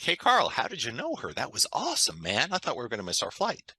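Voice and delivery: high, excited burst at the start, settling down; retelling a delighted, amazed moment; excitedly asking his friend how he pulled it off; excited disbelief. Retold or imitated. Amazed at the airport shortcut.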